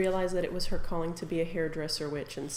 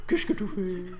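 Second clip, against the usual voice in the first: Madame Hassini voice; 3 dB quieter than usual. Pretend. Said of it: "Madame Hassini".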